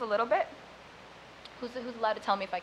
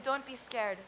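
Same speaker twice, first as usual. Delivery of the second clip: reassuring mother. Retold or imitated. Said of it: "turned and said".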